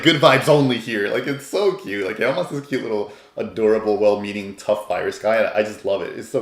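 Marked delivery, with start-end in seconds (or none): 0.0-1.1 influencer voice. Retold or imitated. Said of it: "He's like an Instagram influencer".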